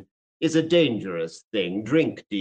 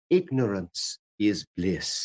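serene reply; 6 semitones lower, slower than usual. Retold or imitated. Beatty quoting his dream reply, slow and serene. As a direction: say it with unruffled calm. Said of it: "replied with rare serenity".

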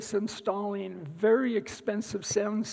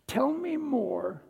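higher, slow and inviting; 4 semitones higher, slower than usual. Shown as a demonstration. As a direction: Tell me more lifted higher and drawn out slowly. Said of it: "The three most important words when listening are".

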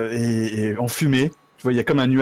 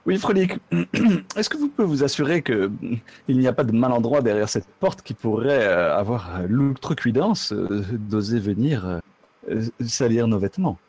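haughty noble lady. Acted. Noble lady orders servant.

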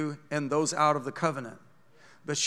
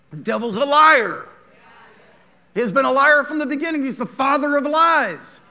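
loud, high preaching; full-force preaching; 8 semitones higher, 9 dB louder than usual. Acted. Preacher denouncing the devil to the church, loud and high. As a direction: preach it hard.

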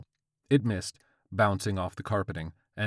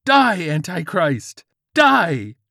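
high, loud zealot battle cry; murderous shout; 10 semitones higher, 13 dB louder, slower than usual. Acted. George charges the old man, murderous shout. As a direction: yell it as you charge.

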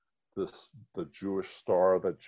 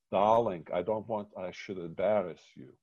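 put-on light Eastern European Yiddish accent, louder on darling; a mother's gentle Yiddish-accented reply, only hinted; 5 dB louder than usual. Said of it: "in her Yiddish, uh, you know, Eastern European accent".

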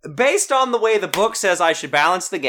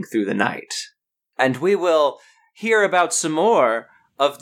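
game master narration; 3 semitones lower than usual. A narrator's reading.

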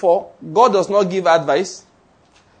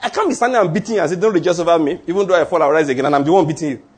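mock boastful; faster than usual. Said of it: "Only a man that's on the ground".

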